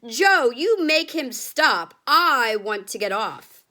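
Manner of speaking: loud, slow, frightened demand; panicked plea. A narrator's reading. Grandma begging Joe to stop the elevator, loud panic.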